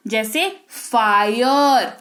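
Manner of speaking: "फायर" drawn out slowly, the long आय glide stretched; slow clear "fire". Shown as a demonstration. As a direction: say "फायर" very slowly, opening the आय sound. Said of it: "सुनाई दे रहा है?". (धीरे धीरे खींचकर "फायर")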